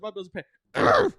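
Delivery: put-on Southern accent. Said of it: "the one that's all over TikTok".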